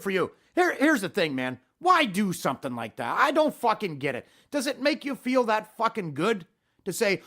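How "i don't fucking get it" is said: ordinary talk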